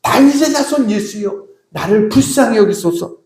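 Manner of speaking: acted plea, pitched very high at the start. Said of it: "더 크게 소리 지릅니다".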